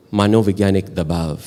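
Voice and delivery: put-on measured, formal Parsi-accented Hindi; shuddh Parsi Hindi. Card player explaining his tactic to the table, mock-solemn Parsi Hindi. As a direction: deliver it as solemn pure Hindi, Parsi style. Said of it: "in my very shuddh Parsi Hindi".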